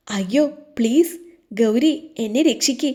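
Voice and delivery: mock begging for rescue, lightly voiced; imitated tearful pleading. Gauri imagines Devan begging her to save him, mock tearful pleading. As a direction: playfully imitate someone whimpering for help. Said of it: "കരഞ്ഞു മെഴുകിയേനെ".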